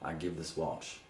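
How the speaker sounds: hushed, low ceremonial close; solemn, tender handover. Acted. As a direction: drop low and quiet, as if handing a boy an heirloom.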